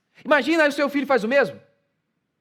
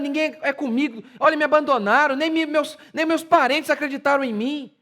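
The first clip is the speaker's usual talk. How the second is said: mock grumbling; 5 semitones higher than usual.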